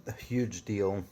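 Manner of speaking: hushed conspiratorial whisper. Acted. Telling listeners about corporate espionage, a secretive whisper.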